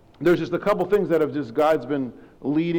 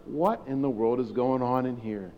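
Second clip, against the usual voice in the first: tag; 4 semitones lower, 6 dB quieter than usual. Retold or imitated. Principal walks into suspicious restroom, baffled.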